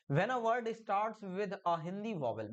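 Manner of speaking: very slow, word by word; dictating pace; slow dictation. Shown as a demonstration. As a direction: spell the rule out slowly for students. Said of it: "मैंने कहा हिंदी के स्वर से".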